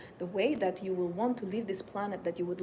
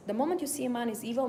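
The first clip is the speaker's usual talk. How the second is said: normal talking voice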